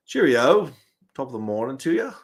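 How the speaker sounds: hammed-up British farewell; mock British accent. Streamer signs off the London game, mock British accent. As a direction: toss off a fake British accent.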